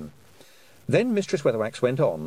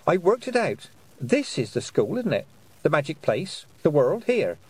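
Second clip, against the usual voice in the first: put-on much higher, earnest girl; bright young witch working it out aloud; 6 semitones higher than usual. A narrator's reading. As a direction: explain it eagerly like a clever child. Tiffany held girl voice.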